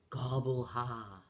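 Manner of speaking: low, slow gobbling laugh; slow turkey jeer; mocking turkey laugh. A narrator's reading. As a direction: drop low and drag out the ha. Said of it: "the other animals on the farm laughed".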